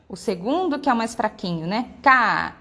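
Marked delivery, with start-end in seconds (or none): 2.0-2.6 CA held long and loud on the A; strong A. Shown as a demonstration. Teacher isolating the stronger vowel, loud long A in "Ca". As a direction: punch out "Ca" with a full open A. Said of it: "o A sai muito mais forte que o I".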